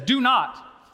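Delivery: "Do not" said firmly, each word weighted; emphatic "Do not", no hedging; emphatic command. Acted. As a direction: punch "Do not" as an order. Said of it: "Shulamite emphatically says".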